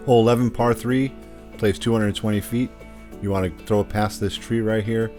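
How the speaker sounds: hole preview voiceover; steady course walkthrough read; golf commentator. Acted. Recorded hole preview over music.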